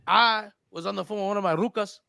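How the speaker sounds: laid-back Chicano captain spinning his tale; easygoing homeboy captain telling his story; cholo captain. Pretend. Captain explains the bridge crash, laid-back cholo voice.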